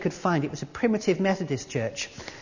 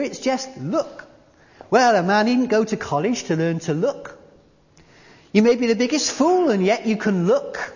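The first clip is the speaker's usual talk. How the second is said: mildly raised rustic preacher voice; a hint of a simple lay preacher; preacher imitation; 4 semitones higher, 3 dB louder than usual. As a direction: play the plain-speaking country preacher. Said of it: "he shouted as only a primitive Methodist could".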